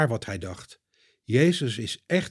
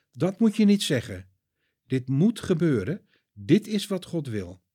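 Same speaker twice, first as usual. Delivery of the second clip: firm, slightly raised correction; stern; 4 semitones higher than usual. Acted. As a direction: set him straight with authority. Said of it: "zegt Jezus streng". (streng terechtwijzend)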